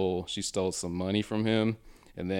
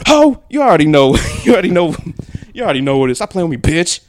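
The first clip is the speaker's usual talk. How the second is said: loud cocky voice; 9 semitones higher, 15 dB louder, faster than usual. Retold or imitated. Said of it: "He said".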